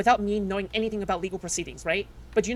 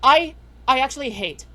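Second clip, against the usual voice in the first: mad; 3 semitones higher, 5 dB louder than usual. Real, not acted. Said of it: "I'm just so mad right now".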